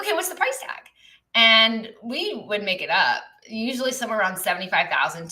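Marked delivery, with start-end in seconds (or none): 0.0-0.9 mimicking client. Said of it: "They're like".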